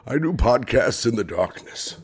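muffled dark swallowed vowels; Bane voice. Acted. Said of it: "You sound like you swallowed someone".

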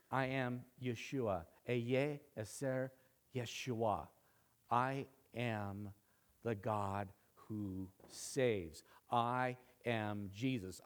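low, soft and very deliberate; slow declaration, weight on every word; solemn divine voice. Acted. The voice reveals itself to Saul, low and solemn. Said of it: "And the voice answers".

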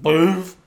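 big dog bark, shouted; loud woof imitation. Big dogs jumping up at people, loud mock bark. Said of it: "I don't see them ever going".

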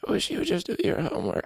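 half-hearted Pooh impression; Winnie the Pooh attempt. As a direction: try a gentle Pooh bear and miss. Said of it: "I can't do that one".

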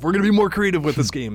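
high, loud mock corporate promise. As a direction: parody the company line. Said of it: "labeling it as being more creative".

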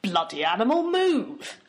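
shoving a goat, high yelp on move; annoyed cry at the goat; frustrated shout. Real, not acted. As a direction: yell at the stubborn goat.

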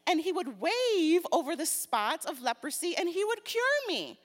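hammed-up indignant complaint; angry Naaman. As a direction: read it with mounting offended pride. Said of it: "Naaman went angry and said".

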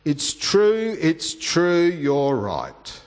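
high, emphatic mock-tearful admission; pleading retold confession, falling at the end; retold sobbing. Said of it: "she sobbed".

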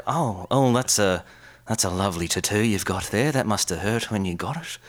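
put-on curious old boomer, chatty; nosy boomer admiring a tattoo. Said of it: "old boomer kind of voice".

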